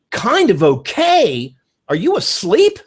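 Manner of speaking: slow, incredulous "Kind of okay?" rising high; mock disbelief. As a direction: tease a lukewarm friend. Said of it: "if you say to me".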